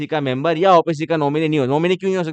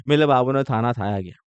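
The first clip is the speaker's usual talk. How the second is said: mock baby talk; 3 semitones lower than usual. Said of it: "तोतले हो जाते हो तुम रात को".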